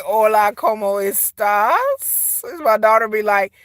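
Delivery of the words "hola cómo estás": very slow, drawn-out mock greeting; imitating daughter's Spanish. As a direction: stretch out the greeting, mimicking your daughter. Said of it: "she be like".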